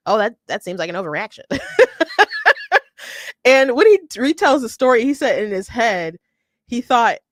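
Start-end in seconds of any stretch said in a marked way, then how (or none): 0.1-1.4 deadpan. Retold or imitated. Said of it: "you're just like". 1.5-3.4 laughing hard, pitched up; long high laughter. Real, not acted. Cracking up at Shapiro's reaction.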